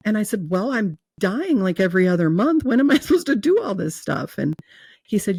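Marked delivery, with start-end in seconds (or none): 0.5-4.4 incredulous protest; arguing with God, laughing in disbelief; exasperated. Retold or imitated.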